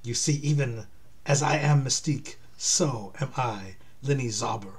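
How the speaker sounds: lightly attempted German accent; hint at a German accent, deliberately phrased; rough German accent. Shapeshifter revealing her identity, rough German accent. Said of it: "I don't have a good German accent".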